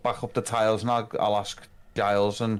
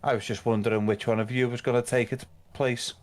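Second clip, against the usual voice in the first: sadistic lord. Acted. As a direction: let the cruelty sit in every word. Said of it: "Grog's quite good at playing sadistic".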